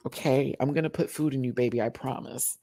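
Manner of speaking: mock-soothing promise, easy and measured; reassuring. Talking to own hungry tummy, reassuring.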